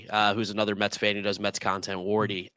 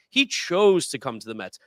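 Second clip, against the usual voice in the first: "chose" punched above the rest of the line; emphatic, insistent weight on "chose"; stress on chose; 4 dB louder than usual. Real, not acted. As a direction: hit "chose" hard, then ease off. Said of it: "that's so important to say".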